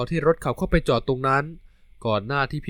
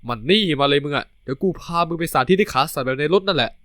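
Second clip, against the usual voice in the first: ordinary delivery, nothing marked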